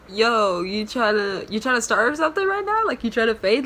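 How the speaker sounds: high, loud challenge to fight; imitating Pinch ready to fight; confrontational. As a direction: square up to the attendant. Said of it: "Pinch was like".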